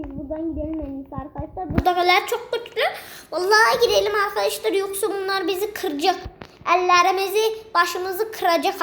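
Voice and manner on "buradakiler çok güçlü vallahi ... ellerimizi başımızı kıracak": fast, rushed mock alarm; mock panic. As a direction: hurry out of there, half-joking. Fleeing strong enemies. (şakacı panikle hızlı hızlı)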